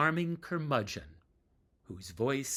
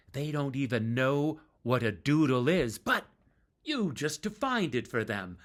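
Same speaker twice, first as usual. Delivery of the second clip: 1 mild teasing; 3 semitones higher, 4 dB louder than usual. Retold or imitated. Rich teasing narrator before audience.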